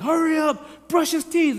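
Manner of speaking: mock mom yelling. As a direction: call out like a hurried mother. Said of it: "mom's yelling".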